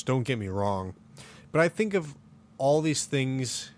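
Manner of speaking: ordinary talk, nothing marked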